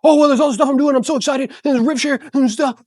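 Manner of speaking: mock an agent spilling everything at once; gushing overexcited agent. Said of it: "Verbally vomit".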